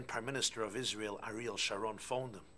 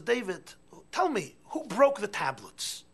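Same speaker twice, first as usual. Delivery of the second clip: loud, high, slow demanding father; a father demanding to know; stern father quiz; 11 semitones higher, 11 dB louder, slower than usual. Acted. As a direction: press the boy for an answer. Father quizzing his son.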